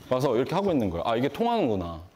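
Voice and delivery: normal talking voice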